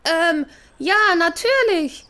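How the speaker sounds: posing as Susi. Acted. Thief pretends to be Susi.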